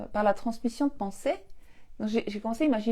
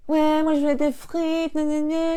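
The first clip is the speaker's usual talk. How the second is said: put-on high, slow whiny kid voice, louder; mocking whiny child; 6 semitones higher, 5 dB louder than usual. Mother mimicking her son begging for fries, whiny.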